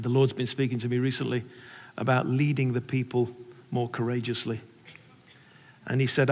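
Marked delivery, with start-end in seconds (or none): 0.0-4.6 tearful conviction. Retold or imitated. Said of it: "he's in tears himself, but it's not tears of hilarity".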